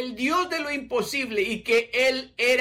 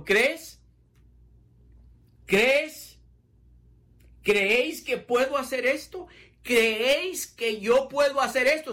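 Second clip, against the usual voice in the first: a gently raised, questioning Jesus; voicing Jesus; 5 semitones higher than usual. Jesus asking the blind men if they believe, gently raised. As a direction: ask it lightly, inviting faith. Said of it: "está diciendo Jesucristo".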